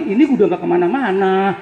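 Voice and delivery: a stroke patient whining to himself; husband's inner complaint. Retold or imitated. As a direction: pitch shooting up at the end. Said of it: "Kata lakinya dalam hati".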